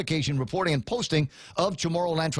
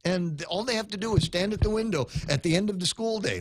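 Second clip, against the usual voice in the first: raised, heated rant; 6 semitones higher than usual. Real, not acted. Host ranting on air about school police, heated. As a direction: keep pushing the point higher and faster.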